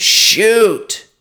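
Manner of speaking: loud high yell from the bench; screamed order. Retold or imitated. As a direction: shout it down the ice at the player. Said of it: "and I screamed".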